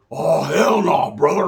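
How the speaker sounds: loud, drawn-out refusal; mock outrage. White inmates rejecting the newcomer, mock outrage. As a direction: refuse it loudly, stretching the words.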